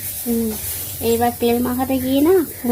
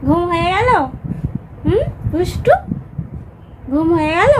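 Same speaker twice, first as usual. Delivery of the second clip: high, loud cooing with rising questions; 7 semitones higher, 3 dB louder than usual. Real, not acted. Mother greets baby who woke up.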